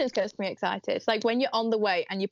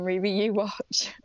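whisper; slower than usual. Real, not acted. Mock threat to sister.

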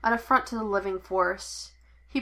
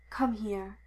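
rough voice; 5 dB quieter than usual. A narrator's reading. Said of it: "his voice rough".

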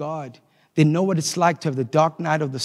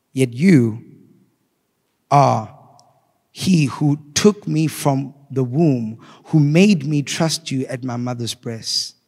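slow scripture reading. Acted. Preacher reads Psalm 22 slowly to the congregation, grave. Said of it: "I wanna read it slowly to you".

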